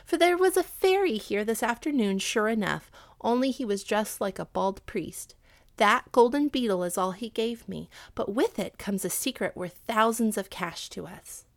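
lightly voiced mother, lively and pleased; a hint of a delighted mother sharing news; lively character voice for the mother; excited mother. Mother figure in narrated tale.

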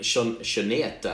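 slow accidental Spanish accent. Real, not acted. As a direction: stumble slowly into a Spanish-sounding name. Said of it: "started speaking in a Spanish accent".

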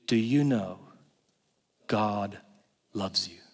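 mock flat, slow preacher; slow monotone preacher. Mocking a dull preacher at a church service. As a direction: drag it out with no passion. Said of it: "In that tone".

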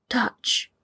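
breathy whispered "touch". Acted. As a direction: whisper it close. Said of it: "he heard someone whisper".

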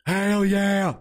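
high, hyped-up "hell yeah"; excited cheer. Real, not acted. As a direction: kick off the show pumped. Excited stream opener cheer.

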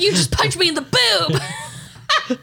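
high, slow quote through laughter; quoting the movie while laughing. Retold or imitated. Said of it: "That's actually hilarious".

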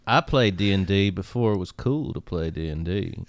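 McConaughey impression. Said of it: "Matthew McConaughey".

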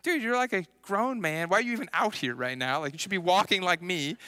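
starts high and scolding, then settles; mock-righteous telling-off of a grown man; father scolding a big skater, high-pitched indignation; indignant rant. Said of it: "and I was mad".

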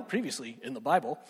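low mock recap narrator; TV announcer. Shown as a demonstration. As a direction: say previously in the Bible like a TV recap voice. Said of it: "I sound like a T V guy".

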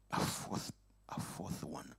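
hushed unvoiced whisper of wonder; awed whisper. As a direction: breathe it in awe. Awed whisper in retold story.

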